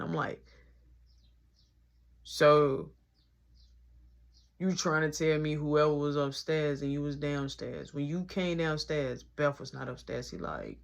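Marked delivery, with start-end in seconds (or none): 2.2-10.3 low, slow, suspicious grilling; skeptical interrogation. Retold or imitated. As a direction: drag it out like a detective. Interrogating friend about Beth.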